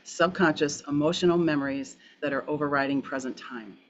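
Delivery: slow down so they catch it. Shown as a demonstration. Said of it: "I'll say that again slower".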